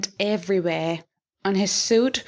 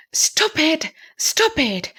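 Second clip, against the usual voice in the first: a jealous husband's understated yell; narrated jealous cry of stop it; screaming; 5 semitones higher, slower than usual. A narrator's reading. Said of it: "he screamed".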